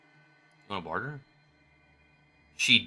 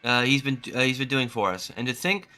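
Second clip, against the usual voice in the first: higher, earnest read of a grateful parent; a hint of a relieved mother passing on news; lightly voiced grateful mother; 5 semitones higher than usual. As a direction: thank the hero, a touch higher than your own voice. Reads grateful mother's lines.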